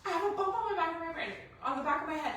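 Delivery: high, loud frantic blurting; frantic sobbing. Retold or imitated. On the phone to Betsy, frantic sobbing. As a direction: blurt it out through tears, too fast to follow. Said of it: "I can't understand what you're saying".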